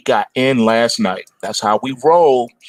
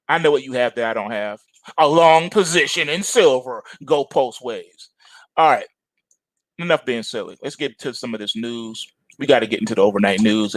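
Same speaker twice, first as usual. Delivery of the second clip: usual speaking voice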